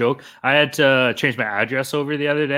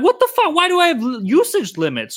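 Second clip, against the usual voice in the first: high, loud mock outrage; retelling the moment he lost it; incredulous shriek of disbelief; outraged disbelief; 13 semitones higher, 3 dB louder than usual. Retold outburst at bank limits.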